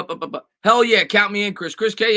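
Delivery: usual speaking voice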